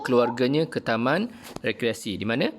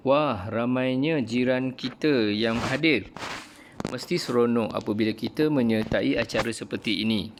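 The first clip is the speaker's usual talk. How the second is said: a hint of an excited boy, slowed a little; mild excitement; lightly voiced Hadif. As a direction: read the boy's line with mild wonder. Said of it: "kata Hadif".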